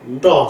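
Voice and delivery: "Nda" drawn out slowly, prenasal "n" before "d"; slow example word. Shown as a demonstration. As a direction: hold the "n" into the "d" of "Nda". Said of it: "comme, euh, nda".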